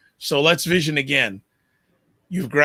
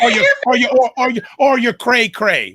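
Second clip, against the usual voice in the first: giggly, higher and a bit louder; laughing while teasing; 8 semitones higher, 4 dB louder than usual. Real, not acted. Host teasing the guest about her PhD, laughing. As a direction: tease through a laugh.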